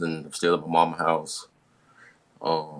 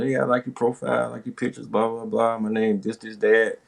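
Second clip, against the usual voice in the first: girl's message voiced; 5 semitones higher than usual. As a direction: lightly voice her sweet message.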